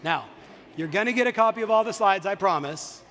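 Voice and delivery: booming promise to the audience; calling out loud. Real, not acted. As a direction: project to the whole room. Calls out to room.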